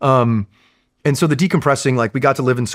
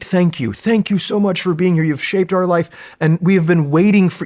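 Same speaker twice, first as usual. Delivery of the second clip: a hint of a grateful man, higher; lightly voiced thanks, pitched up; grateful Iraqi man; 8 semitones higher, 3 dB louder than usual. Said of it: "he says".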